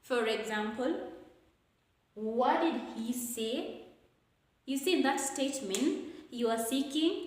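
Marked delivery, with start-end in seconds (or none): 2.2-3.8 slow question, "say" climbing at the end; rising intonation. Shown as a demonstration. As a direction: seek clarification, lifting "say" upward. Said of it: "gonna take the rising intonation".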